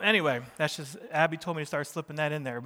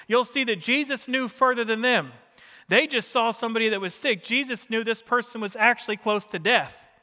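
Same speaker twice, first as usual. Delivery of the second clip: higher, louder sermon delivery; impassioned preaching; 5 semitones higher, 6 dB louder than usual. Real, not acted. Preacher explaining Jesus's choice to save, impassioned preaching. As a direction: drive it home to the congregation. Preacher drives the story home.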